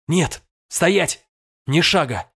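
high, urgent cry of resistance; desperate shout. A narrator's reading. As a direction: yell to stop your own feet. (отчаянный выкрик)

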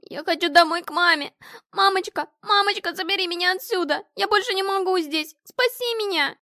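высокий громкий детский вопль о помощи; девочка в ужасе зовёт маму; испуганный крик. A narrator's reading. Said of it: "начала кричать и метаться". (панический крик ребёнка)

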